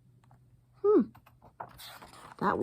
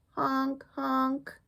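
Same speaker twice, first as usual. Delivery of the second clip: honking; 6 semitones higher than usual. Acted. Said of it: "He honked".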